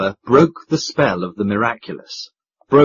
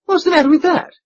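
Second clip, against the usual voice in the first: puzzled; 4 dB louder, faster than usual. Acted. Duke puzzled question.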